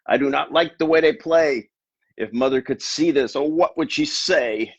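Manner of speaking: a hint of the fish voice on the boy's lines; wrong character voice. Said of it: "I got my voices mixed up".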